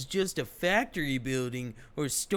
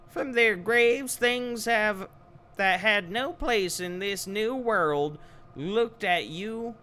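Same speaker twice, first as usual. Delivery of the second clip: loud, higher grand invocation; booming spirit voice; 9 semitones higher, 3 dB louder than usual. Acted. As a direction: proclaim it like chanting spirits.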